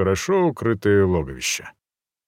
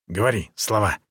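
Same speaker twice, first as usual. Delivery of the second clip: ape-man voice; 2 semitones lower than usual. A narrator's reading. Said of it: "сказал, повторив эту фразу обезьяна-человек".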